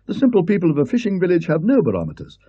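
high, lecturing professor; a don explaining his theory; Parkins. Acted. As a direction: Parkins lecturing the Colonel about wind.

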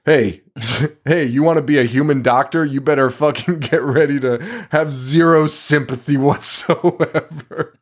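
mock macho doctor. The speaker lecturing Sam on being a doctor, mock macho voice. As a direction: play the callous med-school bro, laughing through it. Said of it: "U S medical industry".

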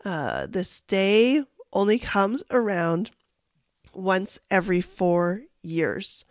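deep, gravelly voice; hoarse gravelly throat. Real, not acted. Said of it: "deep, gravelly voice today".

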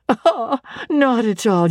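a fond laugh dismissing the notion; amused, teasing reassurance; light laugh. Acted. Diana laughs off Jane's remark.

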